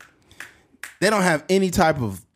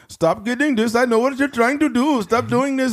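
store clerk voice; 10 semitones higher than usual. Retold or imitated. Store clerk scolding, acted quote.

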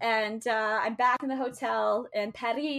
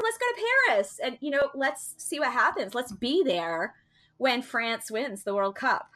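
excited invitation; 3 semitones higher than usual. Retold or imitated. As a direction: mimic a friend eager to go to Paris. Friend's excited pitch retold.

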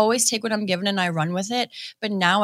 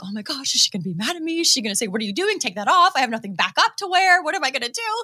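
mock panic, climbing higher as it goes; retold fretting that builds into a higher pitch; freaking out; 4 semitones higher, faster than usual. Wrestler telling how she feared her idol's reaction, mock panic. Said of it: "I am freaking out".

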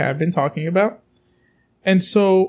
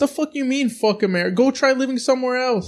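indignant retort; 6 semitones higher than usual. Retold or imitated. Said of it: "And I'm like".

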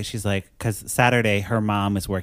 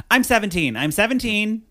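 retold frantic protest; 8 semitones higher than usual. Retold girl protesting unwanted advances.

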